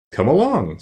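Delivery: lifted, open invitation; a touch of hearty cheer; hearty welcome. Acted. Scarecrow welcoming the Tin Woodman, heartily. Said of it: "said the Scarecrow heartily".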